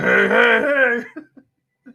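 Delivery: high, cartoonish calling out. Trying out impressions after deciding it's too soon for Cosby, do a Fat Albert impression. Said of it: "Fat Albert".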